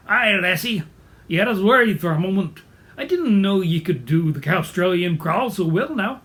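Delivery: hearty Scottish brogue; Scottish accent. Acted. Collie to a cow fallen in a pond, Scottish accent. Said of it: "speaking with a Scottish accent".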